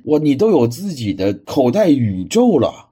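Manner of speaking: awestruck, drawn-out praise; amazed wow. Real, not acted. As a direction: gasp at how much he has. Marvels at the pocket universe.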